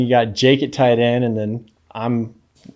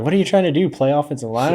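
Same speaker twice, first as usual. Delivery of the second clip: mocking coach; 4 semitones higher, faster than usual. Coach scolding overweight player.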